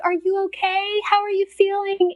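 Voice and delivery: retold caring inquiry; tender concern. Tender check on new mother, retold.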